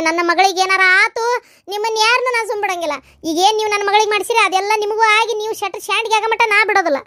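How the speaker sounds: angry threat. Acted. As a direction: threaten them with rising fury. Mother threatens family over daughter. (ಸಿಟ್ಟಿನಿಂದ ಬೆದರಿಕೆ ಹಾಕುವ ಧ್ವನಿ)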